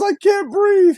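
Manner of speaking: mock breathless. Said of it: "Tony says".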